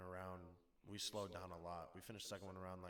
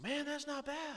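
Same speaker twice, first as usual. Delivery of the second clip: higher, louder mock impressed drunk; impressed drinker; 8 dB louder than usual. Max to the narrator after a shot, mock impressed and louder. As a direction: play the kid pleased by his first shot.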